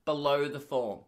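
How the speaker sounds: mildly condescending, imitating a receptionist. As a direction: talk down like a receptionist correcting a patient.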